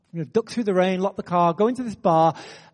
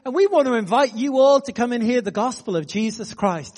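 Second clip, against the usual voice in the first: raised-pitch address to a room; retold announcement; 4 semitones higher than usual. Pastor inviting the whole bar to church, announcing. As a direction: announce it cheerily to everyone. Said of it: "I just announced in French".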